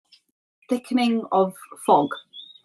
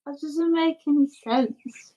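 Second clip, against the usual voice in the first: put-on slightly higher little-kid objection; a hint of the littlest child; lightly voiced little kid; 5 semitones higher than usual. Little one objects to sibling's question, lightly voiced child. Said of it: "the little one goes".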